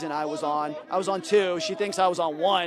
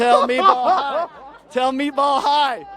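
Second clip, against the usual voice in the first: reading a text slowly; 5 semitones higher, 9 dB louder, slower than usual. Retold or imitated. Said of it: "That's what he says".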